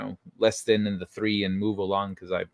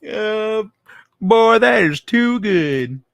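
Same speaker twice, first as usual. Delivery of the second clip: slow, loud laughing delight; 9 semitones higher, 8 dB louder, much slower than usual. Real, not acted. Reacting to chat comment.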